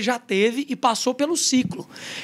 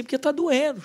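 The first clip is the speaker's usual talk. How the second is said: lightly acted child's complaint, a bit higher; mild mock-tearful protest; imitating a tearful child; 4 semitones higher than usual. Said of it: "chorando mesmo". (imitando criança chorosa, de leve)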